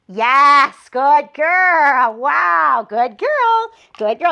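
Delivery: reward her with your voice, all excitement; excited praise. Real, not acted. Praising puppy for staying.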